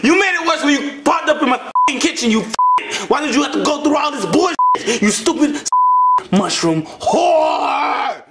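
high angry rant; angry shouting. Acted. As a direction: chew him out. Arguing over ruined cake.

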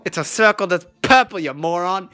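put-on British accent. Imagining a Brit asking about purple circles, mock British accent. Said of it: "being said in a British accent".

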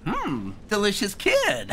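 slow, put-on villain accent with a laugh after; Foxy with an accent. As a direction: savour it slowly in a mock accent, then cackle. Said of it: "I gave Foxy an accent".

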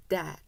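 dad with a wide, stretched ae; dad said with a long open vowel; big open dad. Shown as a demonstration. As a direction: push the lip corners out on dad. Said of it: "힘을 세게 줘서 양 입꼬리를 끝까지".

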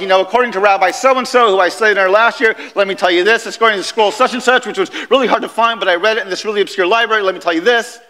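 rattling off credentials quickly, self-important; a show-off rabbi listing his sources; pompous scribe. Retold or imitated. Scribes lecturing the synagogue, quick and self-important. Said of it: "They're like".

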